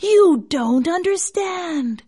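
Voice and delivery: slow, high eerie snake voice; basilisk. A narrator's reading. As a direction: explain coldly like a serpent. Snake explains.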